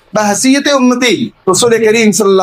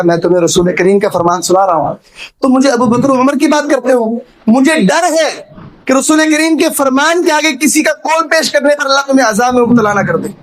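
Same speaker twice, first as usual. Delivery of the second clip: indignant rebuke, lightly acted, pitch climbing after the start; mild retold anger; 3 semitones higher than usual. Companion rebuking a man who cites others over the Prophet, mildly angry. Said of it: "غصے میں آ گئے".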